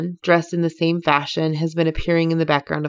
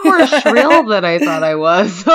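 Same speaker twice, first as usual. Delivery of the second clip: higher, louder, slow self-mocking squeak; mock shrill voice; 4 semitones higher, 8 dB louder than usual. Woman mocks hearing her recorded voice, high and slow. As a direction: play up your own shrillness. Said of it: "I'm like".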